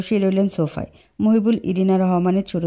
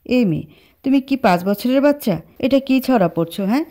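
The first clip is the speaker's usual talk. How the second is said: sharp, higher scolding; 4 semitones higher than usual. Acted. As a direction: snap at the childish girl. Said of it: "Ahan ধমক দিয়ে বলল".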